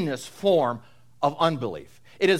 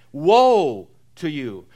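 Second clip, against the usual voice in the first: solemn woe; 5 dB louder, much slower than usual. Retold or imitated. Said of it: "solemn words of judgment coupled with pity and sorrow".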